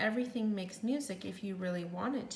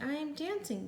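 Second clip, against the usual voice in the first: higher, delighted exclamation; joyful cry; 6 semitones higher than usual. Acted. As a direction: burst out with happy disbelief. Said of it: "Gerald cried".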